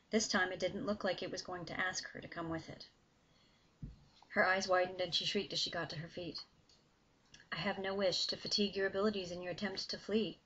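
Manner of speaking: steady, engaged reading of a dark fantasy scene; story narration. A narrator's reading. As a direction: read it like an audiobook, pulling the listener in. Author reads her novel excerpt.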